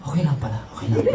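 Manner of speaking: low mutter of relief; reassured passengers. Retold or imitated. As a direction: imitate passengers settling back down. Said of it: "So yung mga tao".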